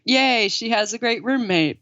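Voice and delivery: light mock cheer; family's naive delight. Family delighted by the roommate, lightly mocked cheer. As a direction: lightly imitate innocently pleased relatives. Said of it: "they're just like".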